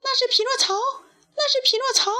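very high, squealed little-puppet voice; high-pitched storybook exclamation; excited puppet lady. A narrator's reading. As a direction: pipe it up high, calling out the discovery. Puppet Miss Rose spots Pinocchio.

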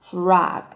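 "frog" with an open ah vowel, like "frahg"; second pronunciation. Shown as a demonstration. Teacher shows learners the second reading, "frog" as "frahg". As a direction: say "frog" with unrounded ah. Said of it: "第二种读法".

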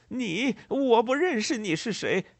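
high, loud, hostile retort; acted furious dismissal; angry. A narrator's reading. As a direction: throw it back angrily, pitch way up. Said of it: "愤怒的布瑞可南说道".

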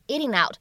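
"eating out" joined without a break; linked words. Shown as a demonstration. Teacher offers another linking option, "eating out" run together. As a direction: carry the end of "eating" right into "out". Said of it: "可以自然的连读一下".

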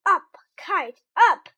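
high, loud command to the kite; shouting. Acted. Frog showing Toad what to shout at the kite, loud high shout. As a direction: yell it up at the sky. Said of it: "and shout".

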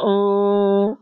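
long high pretend wail; imitated whimper, drawn out on one note; mock crying moan.

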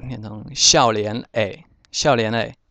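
笑脸诶 drawn out slowly, syllable by syllable; slow careful demo. Shown as a demonstration. Teacher slowly modelling 笑脸诶 for students, careful and slow. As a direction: spell out 笑脸诶 slowly for learners. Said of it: "一般读得比较快".

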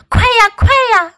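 high, loud hurried urging; urgent. Acted. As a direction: hurry them along. Urging up the stairs.

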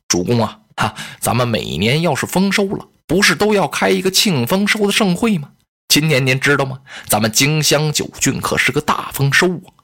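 butter up the lord; fawning officer. Acted.

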